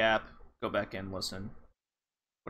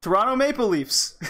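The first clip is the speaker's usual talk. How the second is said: laughing; 8 semitones higher, 4 dB louder than usual. Real, not acted. Listing Canadian clichés, laughing.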